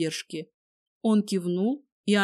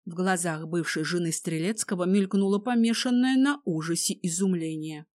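ordinary delivery

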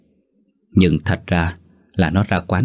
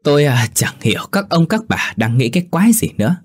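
higher drunk slurring voice, mocking the elders; drunken slur; 4 semitones higher than usual. A narrator's reading. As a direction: play a cocky drunk sneering at the village. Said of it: "giọng lè nhè".

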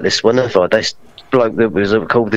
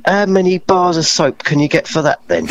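retold heckle; 4 semitones higher than usual. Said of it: "somebody shouted from the back".

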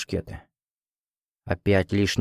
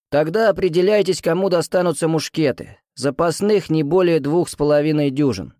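put-on higher, rough old musketeer's bark; hoarse powerful voice; 5 semitones higher than usual. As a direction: boom it hoarsely over the ranks. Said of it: "Хриплый, но мощный голос".

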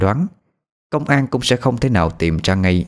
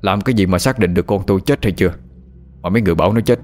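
a touch of bitter rage, rising at the end; father cursing the shaman before the crowd, mildly furious; angry cursing; faster than usual. Acted. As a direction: scold the crowd, refusing to believe. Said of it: "bặm bụng chửi đổng".

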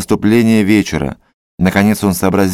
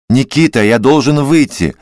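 trembling voice; 2 semitones higher than usual. Acted. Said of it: "сказал он дрогнувшим голосом".

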